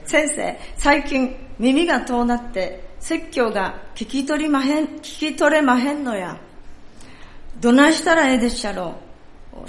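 a lightly played elderly woman in Kansai dialect; Kansai accent. Pastor voicing the old woman asking about her hearing, in a Kansai accent. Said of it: "ちょっとここから関西弁になりますので".

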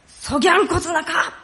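high-pitched amateur Kumamoto dialect. Shown as a demonstration. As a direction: deny it emphatically in Kumamoto dialect. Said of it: "熊本弁だったら". (熊本弁で声高に否定)

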